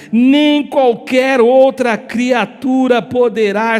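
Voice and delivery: slow, weighty list with pauses between items; solemn preached scripture. Real, not acted. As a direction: declaim each "nem" phrase separately, stretching the words. (leitura bíblica solene, pausada e enfática)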